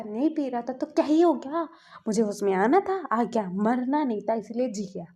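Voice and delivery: bitter, defiant grumble at his grandpa; angry. Retold or imitated. Wing snaps at grandpa, mildly angry retelling. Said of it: "बोलता है विंग गुस्से में".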